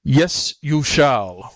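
irate beast insisting; raging tiger. A narrator's reading. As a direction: snap back in exasperated rage. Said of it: "in a rage at the jackal's stupidity".

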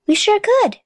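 high-pitched eager exclamation; excited, pitch leaping up; excited cry. A narrator's reading. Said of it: "cried Henry".

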